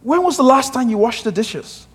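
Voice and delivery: wife's complaint. Retold or imitated. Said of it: "and she said".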